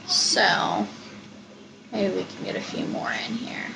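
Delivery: talking through a swollen lip; words shaped around a puffy lip. Real, not acted. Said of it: "I'm talking a little funny tonight".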